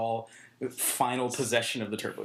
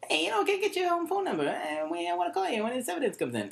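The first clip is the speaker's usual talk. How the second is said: much higher, fast, smarmy come-on voice; sleazy cop pickup line; faster than usual. Retold or imitated. Jay Leno's cop hitting on a witness, fast and smarmy. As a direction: rattle off the pickup line like a creep. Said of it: "he's always like".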